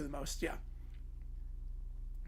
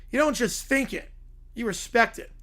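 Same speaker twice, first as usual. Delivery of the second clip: Hank Hill; 2 semitones higher than usual. Retold or imitated. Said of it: "by Hank Hill".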